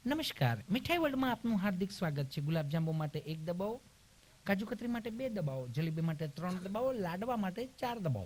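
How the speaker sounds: mock IVR recording voice; automated phone menu. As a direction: recite like a machine menu.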